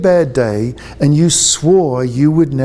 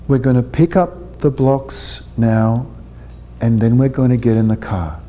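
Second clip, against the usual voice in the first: calm, lower, gentle direction to Aaron; calm direction to a child; 3 semitones lower than usual. Shown as a demonstration. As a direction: speak steadily, eye to eye with a small boy. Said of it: "And then say it to a child".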